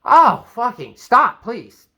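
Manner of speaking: angry outburst. Retold or imitated. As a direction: burst out, sick of being asked. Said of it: "Now you're angry".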